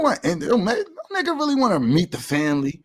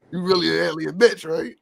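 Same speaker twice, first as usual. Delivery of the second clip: raised-pitch pretend question; playful mock questioning; 5 semitones higher than usual. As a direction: quiz an imaginary alien in a higher voice. Acting out questioning an alien.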